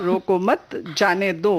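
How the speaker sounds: very slow echo, "रोको मत", break, "जाने दो"; slow repeat, "जाने दो" set apart; pause after मत. Shown as a demonstration. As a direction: draw it out with a gap between "मत" and "जाने". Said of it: "तो क्या सही है".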